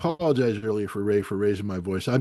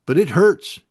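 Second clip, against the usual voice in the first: pained outburst; 8 semitones higher, 8 dB louder than usual. Real, not acted. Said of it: "it has led me to despair".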